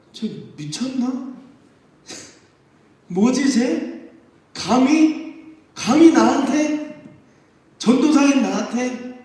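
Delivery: mock affronted preacher; incredulous scoff. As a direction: laugh it off then take offense. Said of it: "어이없는 표정으로 쳐다볼 거예요".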